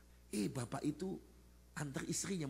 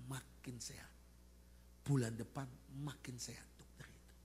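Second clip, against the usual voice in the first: hushed wonder; 6 dB quieter than usual. Real, not acted.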